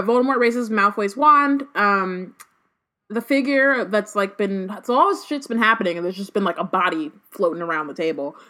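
reads the chapter aloud, steady and clear; story reading. Acted. Host reading the chapter to her co-host, story narration. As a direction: narrate the scene for the listeners.

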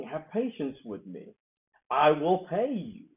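slow, lightly voiced plea; pleading servant. Servant begging his master for time, slow pleading. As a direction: beg for patience, drawn out. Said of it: "the other servant claimed to the king".

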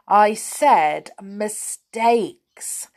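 slow, stressed "mistakes"; emphatic correction. A narrator's reading. Joe correcting deaf Saucepan, "mistakes" slow and emphatic. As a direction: draw out "mistakes" very clearly.

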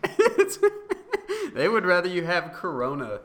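words squeezed out through a high laugh. Real, not acted. To his friend about Southern diners, laughing hard.

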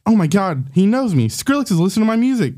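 a touch of fan excitement; starstruck. Acted. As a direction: marvel at being recognized by your idol. Fan thrilled his idol knows him.

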